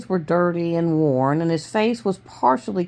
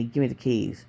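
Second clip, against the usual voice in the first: low, softened gunman's order; controlled, low-voiced threat; low command; 5 semitones lower, 7 dB quieter than usual. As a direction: demand it quietly, pitch dropped.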